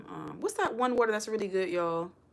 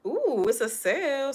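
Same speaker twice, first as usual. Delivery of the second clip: excited; 8 semitones higher, 6 dB louder, slower than usual. Real, not acted. Excited at spotting a sale.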